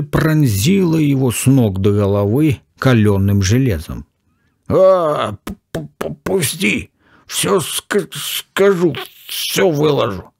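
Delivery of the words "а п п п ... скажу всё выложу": stammering, higher cry of pain; pained howl. A narrator's reading. Professor in a painful arm hold, stammering pained higher cry. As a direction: choke the words out through pain, voice breaking. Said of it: "Профессор взвыл не своим голосом".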